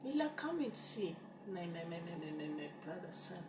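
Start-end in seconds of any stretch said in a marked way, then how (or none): 0.0-1.1 higher, louder call across the yard. Retold or imitated. Calling Mila over to see, higher and louder. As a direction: call someone over to look.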